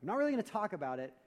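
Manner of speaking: lightly voiced, quick, sly self-explaining friend; ulterior-motive talker. Preacher mimicking a friend with a hidden agenda, lightly sly and quick. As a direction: rattle it off like a schemer confessing his plan. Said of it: "will sound like this".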